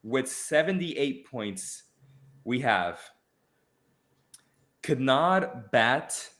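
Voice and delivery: slow, spaced-out roll call of winners; awards announcer. Acted. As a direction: read out each name slowly with suspense pauses. Announces third-place winners.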